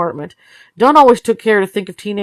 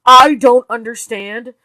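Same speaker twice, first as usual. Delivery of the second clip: slow, stressed repeat; 5 semitones higher, 6 dB louder, slower than usual. Acted. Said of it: "repeated line, slower".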